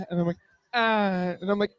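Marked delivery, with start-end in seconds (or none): 0.7-1.4 short mock moan back; tennis-grunt moan. Man's turn in the rally, mock moan. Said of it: "like a women's tennis match".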